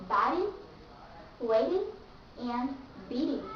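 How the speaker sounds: biting, waiting, beating with a D-like T; flat T. Shown as a demonstration. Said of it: "you pronounce like flat T".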